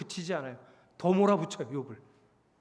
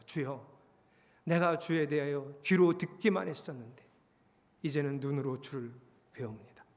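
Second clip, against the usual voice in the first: low, mildly sorrowful prayer; acted penitent bowed before God, voice sinking; subdued confession fading at the end; tearful repentance; 8 semitones lower, 5 dB quieter than usual. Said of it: "눈물을 흘리고 하나님 앞에 납작 엎드려서".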